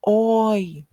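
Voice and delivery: loud high Oi! called to a boat; calling out. Shown as a demonstration. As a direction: shout Oi! as if hailing a boat. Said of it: "as if you are calling out to the boat".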